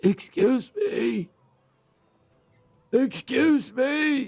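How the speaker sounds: very high, loud, croaking voice. Someone in the water below a ship calls up to a reader on deck, croaky voice. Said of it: "you can just hear this like croaky voice down below".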